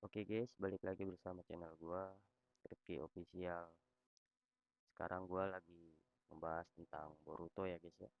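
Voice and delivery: robot voice, text-to-speech reading; flat synthetic robot voice; social media tts voice. Real, not acted. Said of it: "gue pakai suara robot".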